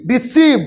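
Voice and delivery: "ডিসিভ" with a long, stressed "see"; clear "see" syllable. Shown as a demonstration. Teacher contrasts the C sound with another, stressed demonstration. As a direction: stretch the "see" inside "ডিসিভ". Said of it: "আমি বলছি সি".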